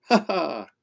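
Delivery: playful mocking ha ha; teasing monster laugh. Slippery monster escaping the kids, laughing. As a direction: laugh like you got away.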